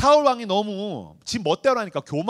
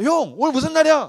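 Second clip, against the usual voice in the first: innocent little brother; 8 semitones higher, 7 dB louder than usual. Retold or imitated. Youngest son asking brother.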